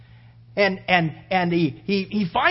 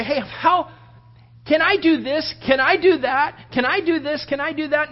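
imitated pestering; 5 semitones higher than usual. Imitates people pestering him for permission.

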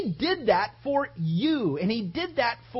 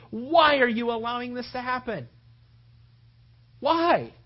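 higher, pleading why; bewildered prayer; 4 semitones higher than usual. Acted. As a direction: disciples questioning God in anguish. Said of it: "they probably prayed that".

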